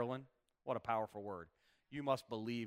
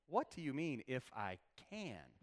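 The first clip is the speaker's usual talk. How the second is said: pointed questioning; 4 dB quieter, slower than usual. Acted. Jesus answering the boy's father, pointedly questioning. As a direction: let "if I can" fall away slowly. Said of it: "that's exactly how he said it".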